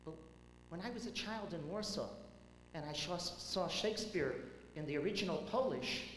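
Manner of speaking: put-on an elderly Warsaw woman's European lilt, lightly done; a hint of an old European accent. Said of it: "with a deep European accent".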